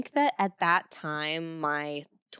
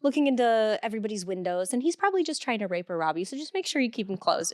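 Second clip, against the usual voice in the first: slightly higher voice, breezily passing on a warning; offhand, lilting mock-casual delivery; Maria's casual warning; 4 semitones higher, faster than usual. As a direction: lightly imitate a sweet little lady. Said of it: "And she said it like that".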